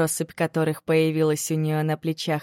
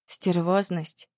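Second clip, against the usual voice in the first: slow, stunned echo; taken aback; slower than usual. Acted. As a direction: repeat it, caught off guard. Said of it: "опешила Вета".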